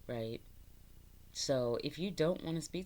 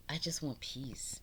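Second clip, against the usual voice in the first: soft whisper; 3 dB quieter than usual. Real, not acted. Speaking calmly about spirit.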